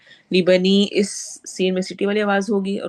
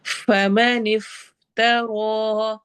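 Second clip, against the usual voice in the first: slow, drawn-out tajweed chant; Quran recitation; much slower than usual. Shown as a demonstration. Teacher recites verse for students, slow tajweed chant. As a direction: recite it slowly, stretching each sound. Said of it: "रॉ heavy होगा".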